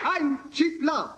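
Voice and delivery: ordinary talk, nothing marked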